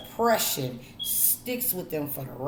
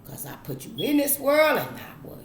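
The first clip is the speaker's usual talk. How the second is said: stern parent. Retold or imitated. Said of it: "they told us".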